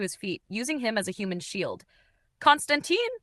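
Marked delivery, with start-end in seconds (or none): 2.4-3.1 shouting. A narrator's reading. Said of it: "Blake shouted over the gunfire".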